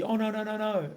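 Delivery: needy begging. Retold or imitated. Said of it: "the begging, the needy".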